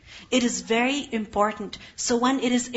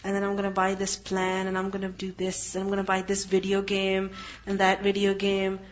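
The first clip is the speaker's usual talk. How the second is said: put-on quiet, lower daydreaming child voice; softly voiced kid rattling off wishes; dreamy kid; 4 semitones lower, 7 dB quieter than usual. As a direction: murmur a kid's big spending plans. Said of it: "their kids are like".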